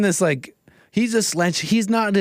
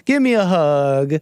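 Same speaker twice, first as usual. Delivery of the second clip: lightly hammed-up begging voice; mock candidate plea. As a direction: wheedle like a needy politician. Streamer parodies candidate's pitch.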